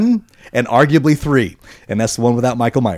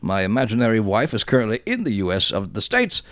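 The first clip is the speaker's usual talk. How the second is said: put-on worst Blackpool accent. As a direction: read the listener email in a mock Blackpool accent. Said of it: "read it in my absolute worst accent".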